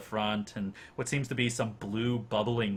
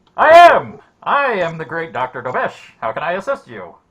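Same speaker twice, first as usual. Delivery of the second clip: filtered character voice, much higher and louder; 7 semitones higher, 18 dB louder than usual. A game master voices Dr. Dobesh greeting the players; filtered respirator voice. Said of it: "filtration of some sort coming from this thing".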